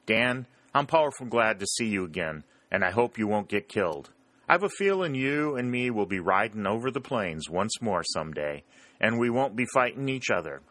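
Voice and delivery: lightly voiced old friend; fond farewell. Brayton bidding his old friend farewell, lightly voiced. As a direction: say goodbye fondly.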